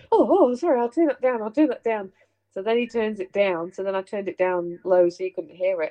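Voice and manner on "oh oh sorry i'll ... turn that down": raised, hurried sorry; flustered apology. Retold or imitated. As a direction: flap and apologise. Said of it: "He goes".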